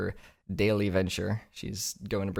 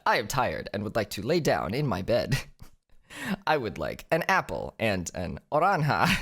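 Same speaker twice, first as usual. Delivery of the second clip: mock Duolingo voice. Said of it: "I sound like a Duolingo prompt".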